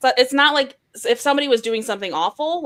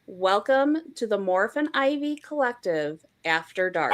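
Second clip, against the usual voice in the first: seductive voice; 2 semitones lower, slower than usual. Shown as a demonstration. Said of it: "in your most seductive voice".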